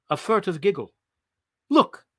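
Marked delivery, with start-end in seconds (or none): 1.7-2.1 sudden high startled shout; startled cry. Acted. Martian spotting a face in the window, startled cry. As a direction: yelp it out in surprise.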